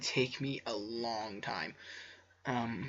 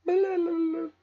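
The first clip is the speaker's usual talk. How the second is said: loud high shout; 11 dB louder than usual. Acted. Sudden dramatic interjection.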